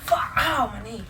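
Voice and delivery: pained cry after a fall; tripping and falling. Real, not acted. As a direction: yelp from banging the knee. Hurt knee after falling.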